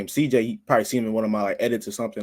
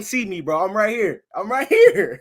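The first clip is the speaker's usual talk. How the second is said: God, voiced lightly in a higher, laughing pitch; lightly acted God making his presence known; God speaking; 7 semitones higher, 3 dB louder than usual. God telling a man he's right there, lightly voiced and animated. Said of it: "like, God was saying".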